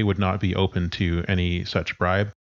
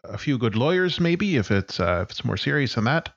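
Sarah D; 4 semitones higher than usual. Acted. GM voices friend on phone.

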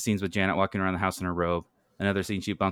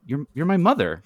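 high, louder heartfelt exclamation; raised, emphatic declaration; exclaiming; 8 semitones higher, 5 dB louder than usual. Acted. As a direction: burst out with it after a stumble. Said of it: "Clarissa exclaims".

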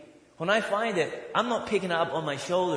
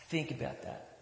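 whispered; 11 dB quieter than usual. Acted. Repeated prompt, whispered take.

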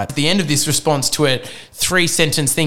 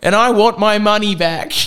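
high, loud, mock voice-cracking complaint; voice breaking; 7 semitones higher, 3 dB louder than usual. Shaky teen phones agency demanding money back, voice breaking. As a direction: act a nervous teen forcing out a demand. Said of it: "voice breaking".

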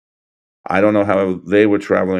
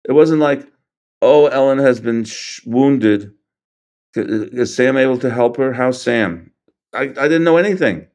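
1 earnest insistence; 4 semitones higher than usual. Real, not acted. Insists he knew nothing.

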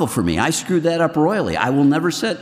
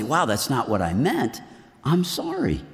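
softer, humbled and sorry; humble apology; 5 dB quieter than usual. Shown as a demonstration. Answering the critics, softly apologizing. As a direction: own the mistake gently. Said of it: "Or I could say".

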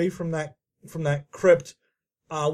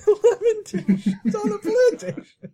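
put-on high, laughing Southern accent; mock Southern accent; 13 semitones higher, slower than usual. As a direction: fake Southern drawl through giggles. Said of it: "that southern accent that we do".

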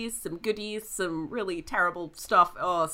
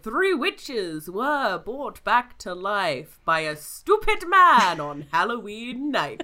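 slow, loud spooky rhyme; spooky narration; 4 dB louder, slower than usual. Acted. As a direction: read it like a ghost story. Spooky rhyming intro read.

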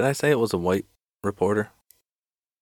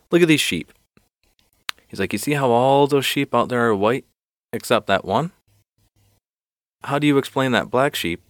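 triumphant pointing; 6 semitones higher than usual. Acted. Reporter shows the chief the black sheep, eager triumph. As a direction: present it as the winning proof.

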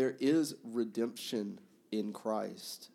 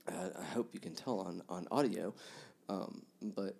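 ugly crying; 3 semitones lower, 4 dB quieter than usual. Real, not acted. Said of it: "I'm clearly just ugly crying at this point".

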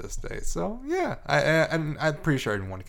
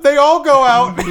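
laughing; 12 semitones higher, 10 dB louder than usual. Real, not acted. Laughing joke about lights.

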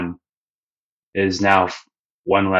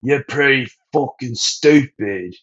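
higher, teasing put-down; lightly voiced mocking Luffy; 5 semitones higher than usual. Luffy mocking Sanji's plan, teasing and higher. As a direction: talk down to him with a smirk. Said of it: "And he's like".

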